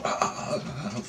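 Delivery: breathy, juddering "ah-ah-ah"; stuttered airy wail of panic; imitated freak-out cry. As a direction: re-enact a gasping, shaken cry. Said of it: "I'm freaking out".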